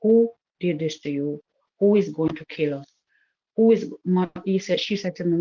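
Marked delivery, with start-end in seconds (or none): 0.0-3.9 serious. Retold or imitated. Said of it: "I started getting serious now".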